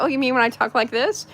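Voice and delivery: put-on a light British accent; lightly put-on British accent. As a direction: slip into a hint of British accent. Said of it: "then I used my British accent".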